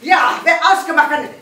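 loud, hammed-up German doctor accent; comic German accent, loud and brisk. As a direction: play a brash German beauty doctor. German doctor demonstrating slapping.

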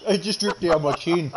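chewing while talking; mouth full. Real, not acted. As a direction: repeat it through a mouthful. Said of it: "T K has his mouth full".

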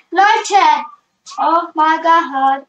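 loud, thrilled shriek; shrieking jackpot winner. Real, not acted. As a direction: shout out in disbelief. Shrieks at dream pet.

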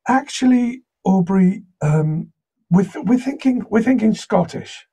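high-pitched voice breaking awkward news; hesitant client. Retold or imitated. Game writer correcting the actor down the line, high and hesitant. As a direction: imitate an apologetic, halting game writer.

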